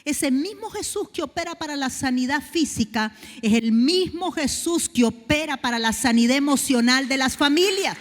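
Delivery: loud, rising sermon cry; full-force preaching. Acted. Preacher to the congregation, full-force preaching. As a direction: build the sermon up to a shout.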